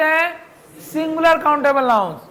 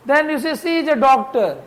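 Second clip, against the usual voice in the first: slow dictation; 2 semitones higher, much slower than usual. Shown as a demonstration. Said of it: "teacher reads example sentence".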